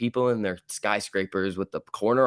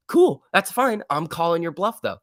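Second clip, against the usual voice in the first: sarcastic cool; 5 semitones higher, 4 dB louder than usual. Acted. Sarcastic reply to short sellers.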